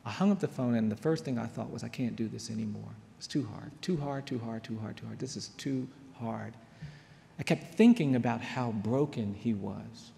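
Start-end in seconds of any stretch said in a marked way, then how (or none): 1.8-6.5 retold despair. Lawyer after hanging up the phone, quiet despair. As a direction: repeat it quietly, as if giving up.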